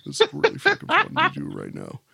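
low, soft, mock sexy voice; super deep voice. Shown as a demonstration. Host hamming up his deep voice on the show, soft and low. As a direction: play the smooth deep radio crooner. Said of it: "my super deep voice".

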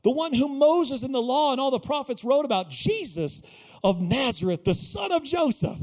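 thrilled herald of great news; excited proclamation. Acted. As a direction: announce it with rising excitement. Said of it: "And he's excited".

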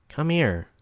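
cooing. Acted. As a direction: coax him in like a siren. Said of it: "she cooed again".

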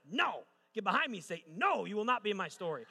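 loud, high-pitched mock refusal; mock-dramatic rebuke. Preacher retelling his refusal of an ex, mock-dramatic rebuke. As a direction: banish them with hammed-up authority.

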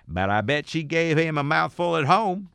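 high, slow put-on Southern wife accent. Joking about the wife in a Southern accent. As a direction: drawl it like a gossiping Southern wife. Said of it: "I don't know what accent that was supposed to be".

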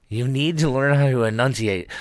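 mimicking Mike. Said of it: "Mike used to always say that".

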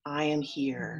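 I am here breathed out in a whisper. Real, not acted. Preacher closing the shared refrain, whispered. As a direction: let the words fall to a hush. Congregation says it together.

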